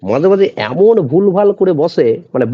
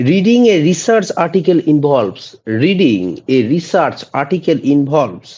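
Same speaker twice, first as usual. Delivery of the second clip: slow, deliberate dictation pace; slow quiz reading; slow question read; much slower than usual. Shown as a demonstration. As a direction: read each word out for the class. Reads quiz question twice.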